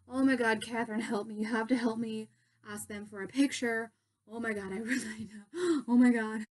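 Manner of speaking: retold starstruck panic, breathless bursts; flustered, urgent plea in mild panic; mock freak-out. Begging Catherine backstage to ask for a picture, freaking out. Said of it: "I was freaking out".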